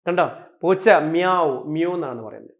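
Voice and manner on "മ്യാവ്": slow, lightly imitated cat meow. Shown as a demonstration. Teacher giving the cat's sound as example, light meow. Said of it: "മ്യാവ് sound മ്യൂ ആയി".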